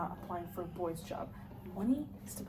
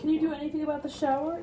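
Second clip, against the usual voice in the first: calling out; 6 semitones higher, 6 dB louder, faster than usual. Acted. Father calls from bathroom.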